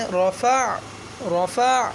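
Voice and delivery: رفع with the throaty ع clearly voiced at the end; رفع said with the final ع squeezed from the throat; ain sounded. Shown as a demonstration. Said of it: "عین کی آواز نکالیں گے".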